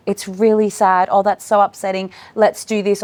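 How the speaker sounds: put-on sit with the child's sadness; acknowledging. Shown as a demonstration. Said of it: "be upset in the right way".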